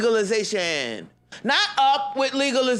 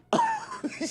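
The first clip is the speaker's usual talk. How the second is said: high squeal laugh; 5 dB quieter than usual. Real, not acted. Laughs at own outburst.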